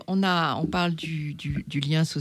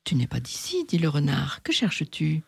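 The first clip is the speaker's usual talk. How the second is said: lightly voiced fox. The fox questioning the little prince, lightly voiced. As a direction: play the fox sizing up the stranger.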